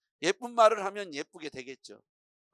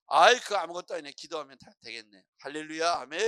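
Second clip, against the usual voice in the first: loud breezy opener, then easy; pastor making light; 6 dB louder than usual. Acted. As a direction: brush the trouble off cheerfully. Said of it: "목사님이".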